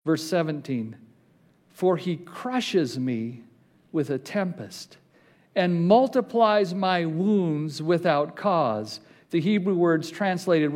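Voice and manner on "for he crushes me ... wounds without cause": slow heavy scripture reading. Acted. Pastor reads Job's suffering slowly, heavy and sombre. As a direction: let each phrase of the lament sink in.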